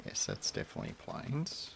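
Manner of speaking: whispered "Yes, that's definitely plains". Shown as a demonstration. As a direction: breathe "definitely plains" unvoiced. Repeats line as whisper.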